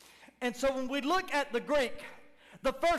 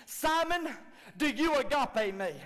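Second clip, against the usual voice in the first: high, earnest question from Jesus; Jesus asking; 4 semitones higher, 3 dB louder than usual. Acted. Jesus pressing Simon with a question. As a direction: ask it searchingly. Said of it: "this is how he said it".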